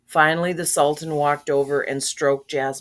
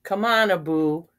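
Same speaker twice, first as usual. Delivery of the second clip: mildly firm order; understated storybook firmness; 4 dB louder than usual. A narrator's reading. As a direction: tell him firmly to come along. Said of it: "said Aladdin firmly".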